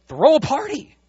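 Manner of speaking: high, loud joyful command; excited call. Retold or imitated. God so excited he orders a party, high and loud. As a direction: announce it with delight.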